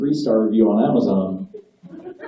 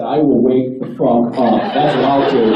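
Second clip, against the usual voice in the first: defiant retort. Retold or imitated. Retort to attendant.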